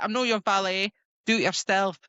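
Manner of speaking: mock Scottish Ned accent. Imitating the character refusing him, Ned accent. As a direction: put on a Ned accent, lightly. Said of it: "giving her a right Ned accent".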